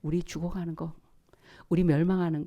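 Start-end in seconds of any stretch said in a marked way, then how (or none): 0.0-0.9 much softer whispered wonder; awed whisper. Real, not acted. Preacher marveling at God's love in a whisper. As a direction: whisper it in awe. Hushed sermon line.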